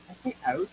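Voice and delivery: "out" said the Canadian way, a rising "aʊ". Shown as a demonstration. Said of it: "people from Canada say out like that".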